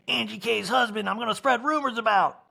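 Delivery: put-on bunny in a light southern accent. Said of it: "I give the bunny a southern accent".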